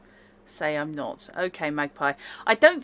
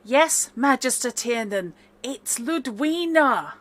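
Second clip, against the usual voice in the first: higher, slow and projected; raised voice, drawn out on the name; speaking up; 6 semitones higher, 3 dB louder, slower than usual. Acted. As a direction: speak up for someone hard of hearing. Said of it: "speaking up so he can hear you".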